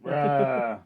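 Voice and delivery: half-hearted intimidating growl. Acted. Player shows his character's failed intimidation, half-hearted growl. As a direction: growl it out with little menace behind it. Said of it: "he's just like".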